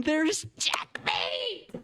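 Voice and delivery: slow, breathy whisper of amazement; hushed stunned reveal; awed whisper. Real, not acted. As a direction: whisper it like a secret. Awed at the mating line.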